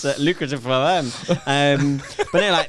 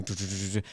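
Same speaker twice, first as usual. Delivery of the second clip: quiet, rapid stuttered "du" sounds; imitated rapid swiping; 4 semitones lower, 9 dB quieter, faster than usual. Tinder user hooked on swiping, quiet imitated patter. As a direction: patter it softly like mindless swiping. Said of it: "you're just there going".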